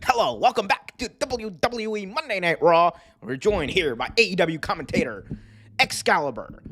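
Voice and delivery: a hint of a slick TV host opening the show; Michael Cole impression. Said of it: "Michael Cole be like".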